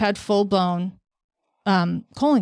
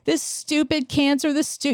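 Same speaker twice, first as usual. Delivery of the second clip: angry; 6 semitones higher than usual. Retold or imitated. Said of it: "I was so pissed off".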